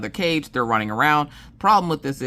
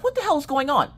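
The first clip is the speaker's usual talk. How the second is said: much higher, strained; exasperated husband; 12 semitones higher, faster than usual. Retold or imitated. Husband on speakerphone, baffled and high-pitched. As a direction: throw up your hands in disbelief. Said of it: "Mister Coffee's like".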